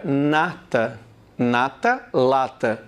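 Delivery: "Nata, lata" contrasted, with the tongue on the palate; careful pronunciation demo. Shown as a demonstration. Teacher showing viewers the N and L contrast. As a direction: model "Nata" then "lata" slowly and clearly. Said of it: "Você vai encostar a língua no céu da boca".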